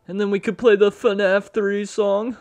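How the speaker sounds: high, loud, drawn-out voice; slow squeal of delight; mock glee. Watcher proposing a song to Ethan, high silly glee.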